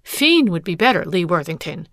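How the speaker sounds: bitter scorn on next friend; scornful jilted wife. Acted. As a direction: spit out the words with contempt. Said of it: "she scorned".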